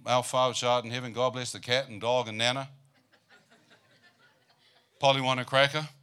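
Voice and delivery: put-on rattled-off childish prayer; hammed-up rote bedtime prayer; rote child's prayer. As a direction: mockingly gabble it like a bored kid. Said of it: "Mother would say, "Have you prayed?".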